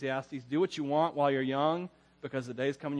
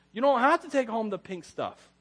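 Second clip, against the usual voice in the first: higher, exasperated plea; pleading with grandma; 6 semitones higher than usual. Retold or imitated. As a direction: beg her to put it back.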